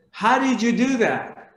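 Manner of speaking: astonished question, pitch jumping up; shocked. Retold or imitated. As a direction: ask it in acted disbelief. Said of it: "Rumi is completely shocked".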